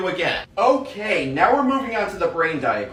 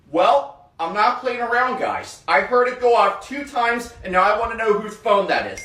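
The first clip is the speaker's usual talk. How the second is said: raised, firm classroom scold; stern teacher scolding; 5 semitones higher than usual. Acted. Teacher scolding the class over a ringing phone, raised and stern.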